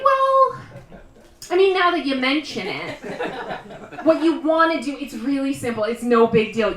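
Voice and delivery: a friend confessing her toilet's tricks; sheepish host. Retold or imitated. Janet explaining the flush, sheepish then eager. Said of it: "she's always like".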